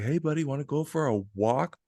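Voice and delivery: eager retold call-out at talking volume; mock calling out. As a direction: imitate calling a dog for a walk. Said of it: "I just yell out".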